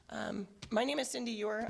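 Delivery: hoarse from being sick; hoarse, recovering voice. Real, not acted. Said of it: "the hoarse voice".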